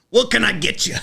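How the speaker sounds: put-on high, loud Western-accent greeting; hammed-up cowboy server twang; mock cowboy accent. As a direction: pitch it up like a caricature Westerner. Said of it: "that's what everyone should say".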